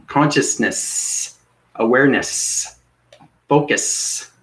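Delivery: hissing each word slowly; snake-like hiss. Real, not acted. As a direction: stretch the words with a snaky hiss. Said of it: "I sound like a snake here".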